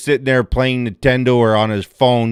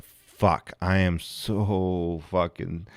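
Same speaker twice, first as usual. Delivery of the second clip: mock groan; 6 semitones lower, 10 dB quieter, much slower than usual. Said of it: "has sat there and went".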